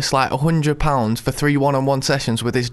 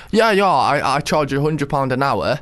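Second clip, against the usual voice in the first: put-on posh accent; 3 semitones lower than usual. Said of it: "was that you doing a posh accent".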